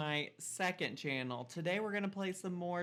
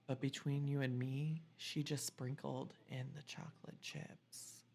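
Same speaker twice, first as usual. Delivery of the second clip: secret aside; 6 dB quieter than usual. Acted. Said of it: "leans in and whispers".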